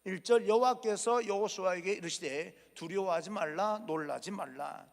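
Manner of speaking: scripture reading. Shown as a demonstration. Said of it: "일 절입니다".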